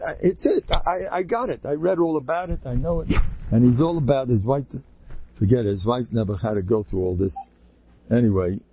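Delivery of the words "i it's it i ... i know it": imitated panicking patient. Imitates patient insisting on his diagnosis.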